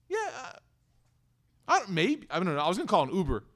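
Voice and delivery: waver as you half-refuse the offer; pretending not to need it. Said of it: "we pretend like we don't need it".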